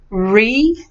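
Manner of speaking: "Reflection" in separate syllables, re, flec, tion; pronunciation model. Shown as a demonstration. Teacher models for student, syllable by syllable. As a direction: break "Reflection" up, rising on the first syllable. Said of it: "let's do the pronunciation".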